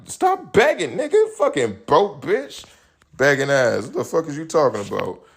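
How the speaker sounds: very high, shrieking mock insult; hammed-up screech at the beggar; mock yell. Insulting the broke friend who begged, a hammed-up high screech.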